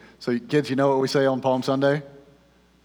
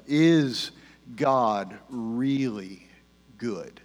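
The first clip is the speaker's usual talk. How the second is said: weighted question; 2 semitones lower, much slower than usual. Real, not acted. Weighing the core question, spaced out.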